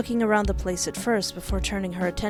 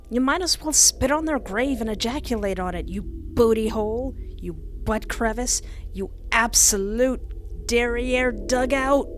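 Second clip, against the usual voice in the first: rising insult tirade; angry insults; 3 semitones higher than usual. Acted. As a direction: spit out the insults. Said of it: "startled from my outburst".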